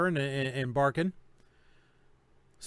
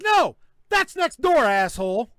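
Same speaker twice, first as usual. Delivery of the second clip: a much higher, louder, slow retold put-down; annoyed retort; 6 semitones higher, 7 dB louder than usual. Homeowner telling the marshals they have the wrong door, retold angry jab. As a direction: tell them off with contempt. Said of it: "I was like".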